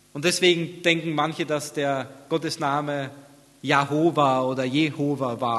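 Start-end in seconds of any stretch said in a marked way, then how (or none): 3.6-5.4 "Jahova oder Jehova" with a long stressed middle "ho"; "Jahova" with a, "Jehova" with e, both stressed on "ho"; mistaken pronunciation. Shown as a demonstration. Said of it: "aber das ist eigentlich falsch".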